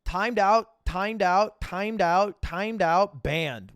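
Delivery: loud, chanted repeated verdict; emphatic, punched-out repetition; mock announcement. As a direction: fire off each one loudly in the same tune. Reads out a meme, acting it.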